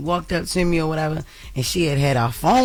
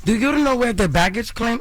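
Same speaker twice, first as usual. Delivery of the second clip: higher mock Spanish-accented voice; attempted Spanish accent; 5 semitones higher than usual. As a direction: imitate a lady with a muddled Spanish accent. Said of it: "I don't know why that accent was Spanish".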